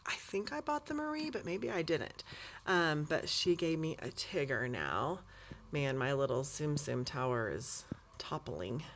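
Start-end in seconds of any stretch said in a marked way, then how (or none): 5.7-8.8 hushed whisper to herself. Real, not acted. Vlogger fussing over her toppling toy tower, whispering. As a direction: whisper it while balancing the tower.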